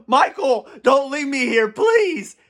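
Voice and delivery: hammed-up whiny begging, rising high on please; mock crying plea. William Afton begging Michael to stay, mock sobbing plea. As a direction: imitate a villain pleading in mock tears. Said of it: "He was literally crying".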